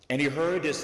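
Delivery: ordinary talk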